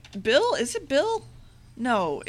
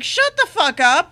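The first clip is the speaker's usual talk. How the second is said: retold shut-up; 7 semitones higher, 6 dB louder than usual. Group telling Turkey Leg off.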